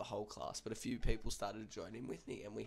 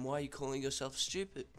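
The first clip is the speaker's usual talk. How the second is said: slightly louder, higher, indignant question; mock stern challenge; 4 semitones higher, 4 dB louder than usual. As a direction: imitate an unimpressed teacher demanding an explanation. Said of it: "he's not having a bar of that".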